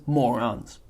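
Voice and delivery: dismissive villain voice, lightly done; Wallace Shawn's Vizzini. Acted. Vizzini dismissing famous thinkers, mild mock sneer. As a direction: sneer the word with mild contempt. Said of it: "mimicking Wallace Shawn's inflection".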